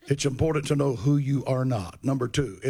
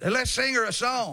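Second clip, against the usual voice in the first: mock cheerful offer; 11 semitones higher than usual.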